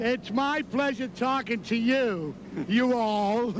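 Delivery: slow, careful "talking" in would-be Southern manners; civilized Southern attempt. Shown as a demonstration. Brooklyn man corrected by the interviewer, civilized Southern attempt. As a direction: Brooklynite slowly attempting polite Southern speech. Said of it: "Just say it's civilized".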